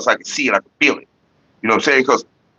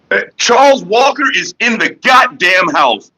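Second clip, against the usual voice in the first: excited hype greeting; 10 semitones higher than usual. Real, not acted. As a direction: hype up the new guest like a host. Greeting a viewer in chat.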